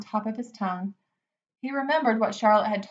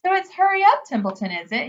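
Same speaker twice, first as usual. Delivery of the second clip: high mocking imitation of the pig; mocking Wilbur; 6 semitones higher, 4 dB louder than usual. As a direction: mimic the pig with a sneer. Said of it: "He began imitating Wilbur's voice".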